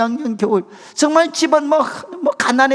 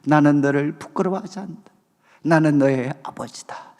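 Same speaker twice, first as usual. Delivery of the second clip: voice of God; 9 semitones lower, 3 dB quieter than usual. Retold or imitated. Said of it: "하나님이 너무나도 생생하게 말씀해 주셨어요".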